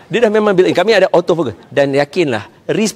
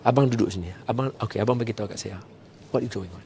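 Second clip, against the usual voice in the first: calm gentle questions; 4 semitones lower, 9 dB quieter than usual. Shown as a demonstration. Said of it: "tanya dia".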